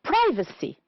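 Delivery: Privacy with PRI high, then falling; stress on first syllable. Shown as a demonstration. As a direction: punch the start of Privacy. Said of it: "two syllables before".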